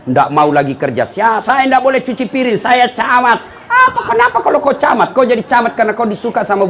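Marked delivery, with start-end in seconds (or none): 1.1-3.4 lightly voiced boastful husband, higher; a smug husband refusing chores, played for laughs; mock proud husband. Preacher mocking a lazy husband, with a touch of smugness. 3.6-5.1 sharp high challenge; mock indignant retort. Preacher answering the boastful husband, mock indignant.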